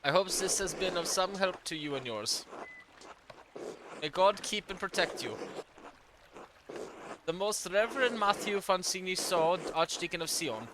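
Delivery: put-on light German accent for an old churchman's letter; a hint of a German accent, formal and measured. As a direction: read it as a German-accented archdeacon. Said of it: "I accidentally gave him a German accent".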